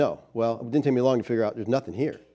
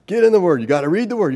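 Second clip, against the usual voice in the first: louder insistent mentor; mentor drilling; 4 semitones higher, 4 dB louder, faster than usual. Retold or imitated. Mentor drilling the young couple at dinner, insistent. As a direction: hammer it home like Billy at dinner. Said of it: "He drilled two things into my head".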